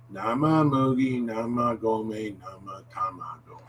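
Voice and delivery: measured, connected tongue twister; medium speed. Shown as a demonstration. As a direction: say it steadily, stretching the vowels a little. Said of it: "say it at medium speed".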